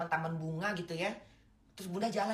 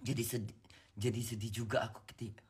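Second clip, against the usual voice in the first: sad whisper; 7 semitones lower than usual. Real, not acted. Mother sadly remembering a dead friend.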